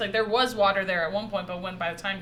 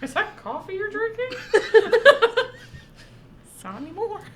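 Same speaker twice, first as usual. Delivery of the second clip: put-on very old man; 13 semitones higher, 7 dB louder than usual. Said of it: "that's my old man voice".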